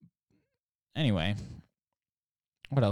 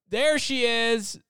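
much higher, louder, slow triumphant cheer; cheering relief; 12 semitones higher, 6 dB louder, slower than usual. Retold or imitated. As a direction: greet her like a long-lost hero. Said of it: "we're like".

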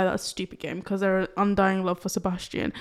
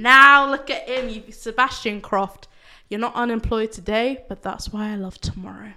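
villain voice. Acted. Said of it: "You sound like a fucking villain".

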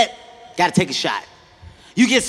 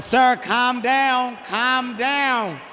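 calm clerk; 3 semitones higher, slower than usual. Retold or imitated. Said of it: "She was like".

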